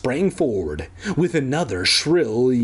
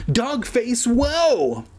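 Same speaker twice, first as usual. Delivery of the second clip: calling out; 11 semitones higher, much slower than usual. Acted. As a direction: call after the dog. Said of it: "Evan called".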